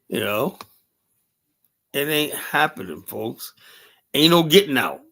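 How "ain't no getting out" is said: emphatic. Real, not acted. Repeated emphatic declaration.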